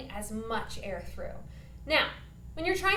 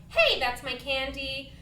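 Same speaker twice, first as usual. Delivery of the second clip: put-on mild bratty kid; 4 dB louder than usual. Shown as a demonstration. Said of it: "a bratty little kid".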